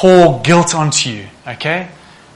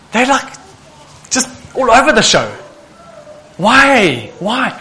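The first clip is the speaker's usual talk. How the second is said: a lightly voiced frustrated brother, pitched up; frustrated friend; 5 semitones higher than usual. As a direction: mimic a fed-up friend, half-hearted. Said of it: "and he's frustrated".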